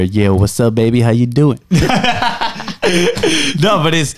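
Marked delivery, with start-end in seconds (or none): 0.0-1.6 lightly hammed-up pickup line; purring into someone's ear for a joke; mock seductive whisper. Shown as a demonstration. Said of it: "the whisper in your ear". 1.6-3.5 high, breathy laugh at own joke; laughing at own silly whisper; burst of laughter. Real, not acted.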